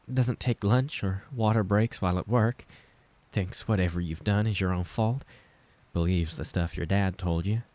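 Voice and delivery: a hint of a worried mother reading aloud; Clara reading list. Clara reads her list.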